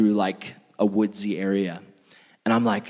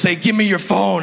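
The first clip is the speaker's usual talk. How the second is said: higher, lightly voiced gangster demand; mock gangster; 7 semitones higher, 5 dB louder than usual. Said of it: "total straight up gangster".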